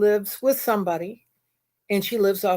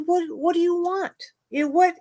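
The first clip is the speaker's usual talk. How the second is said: higher, fed-up what do you want; exasperated; 7 semitones higher, faster than usual. Shown as a demonstration. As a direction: throw the question up in frustration. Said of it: "you're hearing the exasperated voice".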